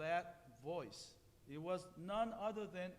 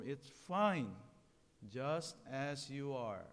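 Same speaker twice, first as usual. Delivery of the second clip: gentle reassurance; 5 semitones lower, 3 dB louder, slower than usual. Acted. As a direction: say it again, gently and low. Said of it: "Once more".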